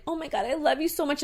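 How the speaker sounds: gushing affection. Retold or imitated. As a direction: re-enact doting on a beloved pet. Retold gushing to dead dog.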